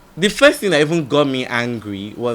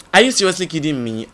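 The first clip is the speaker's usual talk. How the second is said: exasperated retort; 5 semitones higher, 6 dB louder, faster than usual. Retold or imitated. Repeats the outraged reply.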